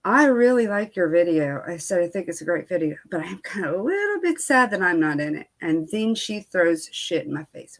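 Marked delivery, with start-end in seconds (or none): 0.0-5.5 calm, cool voice. Retold or imitated. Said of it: "in a calm, cool, collective voice".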